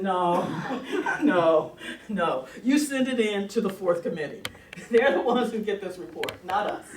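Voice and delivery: loud "no, no" broken up by laughter; laughing off the obvious trap; laughing refusal. Retold or imitated. US delegates refusing the report, laughing loudly.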